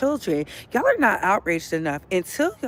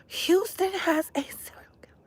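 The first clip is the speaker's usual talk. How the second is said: breathy whisper, much higher; 10 semitones higher than usual. Real, not acted. Telling viewers about a Houston serial killer, whispered. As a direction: whisper it, shaken.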